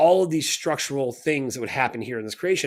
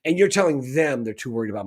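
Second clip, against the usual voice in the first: furious rant; 2 semitones higher, 4 dB louder than usual. Retold or imitated. Speaker retells blasting Jared Rand, loud and outraged. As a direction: tear into him, outraged.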